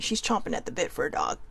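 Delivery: hushed, secretive whisper; whispered aside. Real, not acted. Telling viewers about the roommate in a whisper. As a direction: whisper it so the roommate won't hear.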